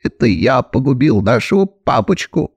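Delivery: usual speaking voice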